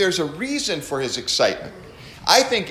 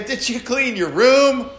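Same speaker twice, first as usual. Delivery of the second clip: 1 drawn-out high question; 7 semitones higher, 3 dB louder than usual. Shown as a demonstration. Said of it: "You can say".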